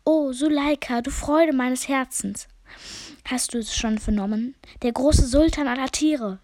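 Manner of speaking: high, loud, fond pigeon voice; a lovesick male pigeon calling to his mate; courting pigeon calling out. Acted.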